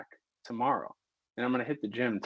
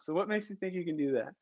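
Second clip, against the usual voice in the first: heated rant; 5 semitones higher, 6 dB quieter, faster than usual. Real, not acted. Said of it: "going on that tirade".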